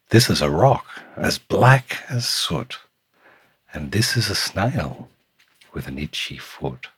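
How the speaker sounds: lilting storytime read with punched key words; picture book narration. A narrator's reading. Reading a picture book to Samuel, lilting storytime voice. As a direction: read it to a small child, savouring the rhyme.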